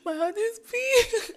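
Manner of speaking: very high, slow crying squeak; imitated crying. Sending girlfriend a voice note, high mock crying. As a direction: mimic a tearful, drawn-out voice note. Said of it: "I started crying".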